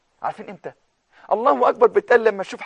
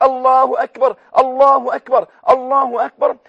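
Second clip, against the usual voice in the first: joyful takbir; 3 semitones higher, 5 dB louder than usual. Shown as a demonstration. Preacher answering a troubled viewer with joyful takbir. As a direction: proclaim it to the viewer. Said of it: "أقول لك".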